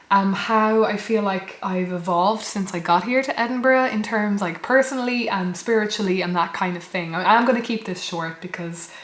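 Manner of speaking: lost voice, hoarse and strained. Real, not acted. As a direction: speak through a hoarse, lost voice. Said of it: "I've lost my voice".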